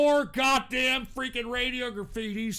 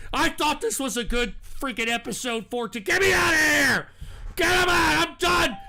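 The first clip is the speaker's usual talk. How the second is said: angry near tears. Real, not acted. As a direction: shout you are done with them. Host yells he is done.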